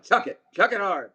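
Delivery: high-pitched teasing call; imitated player's shout; mock infield holler. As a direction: holler it high, as a running joke. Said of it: "did you hear Murray yelling".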